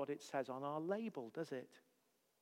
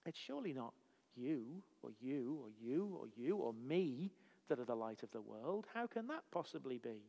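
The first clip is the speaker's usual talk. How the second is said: quiet incredulity; 5 semitones lower, 8 dB quieter than usual. Real, not acted. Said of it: "Surely there's a misunderstanding here".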